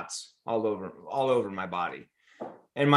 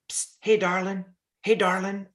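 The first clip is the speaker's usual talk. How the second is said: Dolly Parton impression; 6 semitones higher than usual. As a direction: call him over gently as a kind country star. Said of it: "to my left is Dolly Parton".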